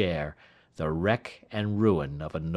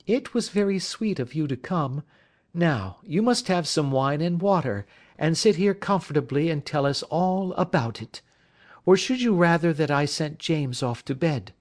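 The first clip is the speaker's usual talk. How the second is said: higher, soothing friendly woman's voice; wife's higher reassuring voice; comforting wife; 8 semitones higher than usual. A narrator's reading. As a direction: settle a shaken friend kindly.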